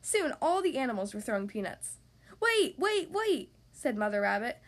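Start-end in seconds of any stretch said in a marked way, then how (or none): 2.4-3.6 high-pitched repeated plea to stop; urgent calling out. A narrator's reading. Mother rabbit halting peanut throwers, calling out urgently. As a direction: cut through the crowd. Mother calls to halt the crowd.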